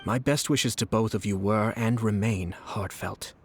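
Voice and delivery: slow, breathy sincere whisper; heartfelt whisper. Acted. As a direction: hush it out like a blessing. Sincere blessing to a bride.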